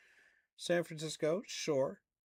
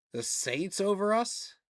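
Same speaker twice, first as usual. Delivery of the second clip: disbelief; 6 semitones higher, 4 dB louder than usual. Real, not acted. Outraged at ESPN ranking his team.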